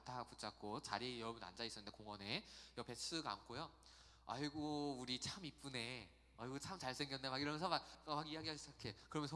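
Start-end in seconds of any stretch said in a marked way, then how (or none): 4.3-7.3 imitating a Muslim stranger. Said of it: "무슬림이 이렇게 와요".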